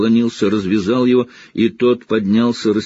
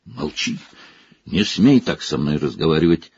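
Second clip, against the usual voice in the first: raging; 4 semitones lower than usual. Acted. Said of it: "безумствовал Снегг".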